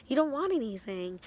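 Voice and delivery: no longer friendly. Retold or imitated. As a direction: act out fed-up disbelief at being hit. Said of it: "I'm no longer smiling and happy".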